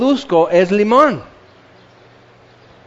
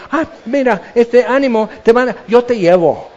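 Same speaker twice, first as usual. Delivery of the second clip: higher-pitched mock eagerness; hypocritical helpfulness; 4 semitones higher than usual. Crowd offering to lead the blind man, mock helpfulness. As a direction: imitate a suddenly helpful hypocrite. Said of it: "ahora todos bien hipócritas están".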